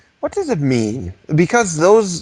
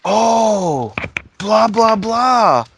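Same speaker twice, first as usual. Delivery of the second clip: high, louder sing-song coaxing; coaxing dog voice; 7 semitones higher, 3 dB louder, much slower than usual. Pretend. Luring the dog with a treat, high coaxing voice.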